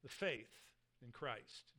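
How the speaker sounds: slow, with "faith" leaned on; emphasis on faith. Shown as a demonstration. Preacher pointing the congregation to faith, slow emphasis. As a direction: linger on "faith in Christ" to drive it home. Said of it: "with the emphasis on this".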